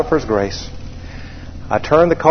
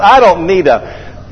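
slow, raised, mildly indignant protest; 4 semitones higher, slower than usual. Retold or imitated. Pilot scoffing at fuel driver's offer, mock-indignant. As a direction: replay an offended inner rant.

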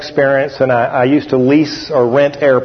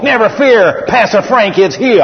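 Frank's catchphrase; 5 semitones higher than usual. Retold or imitated.

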